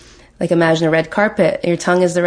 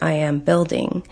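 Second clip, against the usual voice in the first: slow affirmation. Shown as a demonstration. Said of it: "use words like".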